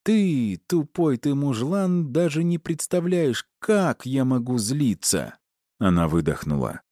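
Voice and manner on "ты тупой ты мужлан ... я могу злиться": furious scolding. A narrator's reading. Enraged wife scolding.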